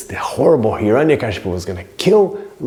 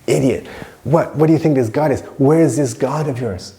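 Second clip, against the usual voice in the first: scornful, higher-pitched acted challenge; really angry; 6 semitones higher than usual. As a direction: imitate an irate father challenging his son. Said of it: "he gets really angry".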